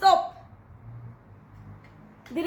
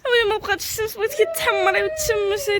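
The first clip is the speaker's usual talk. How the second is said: milder mock lament; 3 semitones higher than usual. Repeats lament softer.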